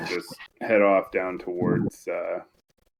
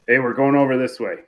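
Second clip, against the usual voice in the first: raised, louder call, lightly acted; mock yell; 5 semitones higher, 6 dB louder than usual. Player calling to the others about the route, mild mock yell. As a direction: call out to the group, half-hearted yell. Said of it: "I just yell".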